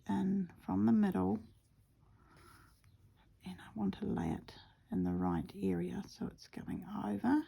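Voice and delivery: quiet whispered narration while stitching; soft whisper. Acted. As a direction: whisper close to the mic as you work.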